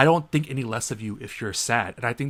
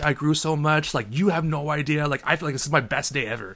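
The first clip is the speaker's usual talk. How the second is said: forced cheerful imitation; mock fake cheer; 3 semitones higher, 3 dB louder than usual. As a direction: mimic a heartbroken man faking joy. Coworker faking happiness.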